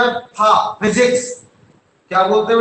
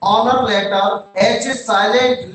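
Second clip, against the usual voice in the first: slow dictation; much slower than usual. Shown as a demonstration. Teacher dictating question slowly.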